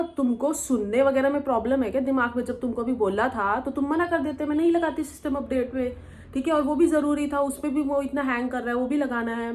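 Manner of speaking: retold anger. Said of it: "फिर मेरा खोपड़ी घूम जाती है".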